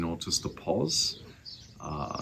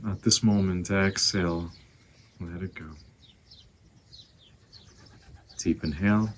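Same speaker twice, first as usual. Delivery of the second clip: guided meditation. Acted. Teacher guiding listeners to find their breath, calm meditation voice. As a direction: ease them into the breath.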